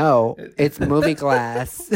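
slow, amused insistence with a laugh; laughing through it. Retold or imitated. Seb retells arguing with the lady, laughing. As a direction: repeat it patiently, laughing. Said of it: "I'm like".

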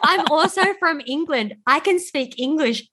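high, laughing through the mock brag; laughing mock boast. Mocking her teen self to a friend, laughing high brag. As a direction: giggle while bragging as the teen self. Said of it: "And I'm like".

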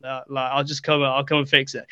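low, quiet, unbothered reply; soft, offhand mumble; blasé. Retold or imitated. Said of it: "he's so blasé about everything".

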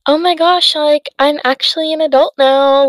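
suddenly thrilled to be grown up; excited realization. Pretend. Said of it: "Like, it's not like".

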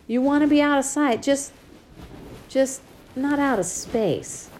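father comforting his crying daughter; tender comforting father. Acted. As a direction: hold her and reassure her.

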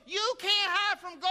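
high, far-off preacher voice imitating him; street preacher warning. Imitating the preacher's first take, pitched high. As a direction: mimic the old preacher's warning. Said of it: "he go".

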